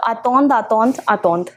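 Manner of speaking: "attend" said a-tond each time; same pronunciation thrice. Shown as a demonstration. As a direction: repeat "attend" identically as separate model words. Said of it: "Same for these three".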